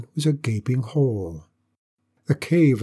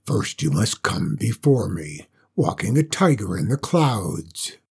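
low, rolling dragon rumble; thundering dragon voice; 4 semitones lower than usual. Acted. Dragon giving the first riddle, low and thunderous. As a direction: speak like thunder echoing in a cave. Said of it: "a voice like echoing thunder".

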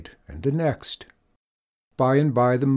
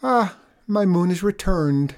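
sighing; 7 semitones higher, 4 dB louder than usual. A narrator's reading. Farmer welcomes his moon's return, sighing. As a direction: sigh it out in a high voice. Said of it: "sighed Abel".

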